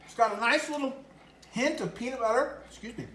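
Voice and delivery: talking through a mouthful of taco; chewing while talking, mouth full. Real, not acted. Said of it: "Talk with your mouth full?".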